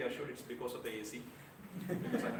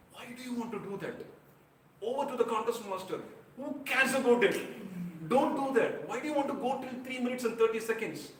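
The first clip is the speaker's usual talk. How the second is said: high, loud mock telling-off; teasing scolding; 10 semitones higher, 7 dB louder than usual. The mentor teasing a speaker after the contest, a loud high mock scolding. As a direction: rib him loudly, pitched well up. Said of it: "He used to pull his legs after the contest".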